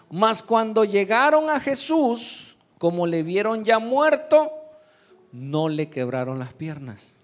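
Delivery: high, loud proclamation of the verse; scripture reading. Real, not acted. Preacher reads of soldiers reaching Jesus, loud scripture reading.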